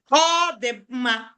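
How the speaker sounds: "All" said as a long, drawn-out dotted O; teacher demonstrating the dotted O in "All"; dotted O sound. Shown as a demonstration. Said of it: "or the O with a dot".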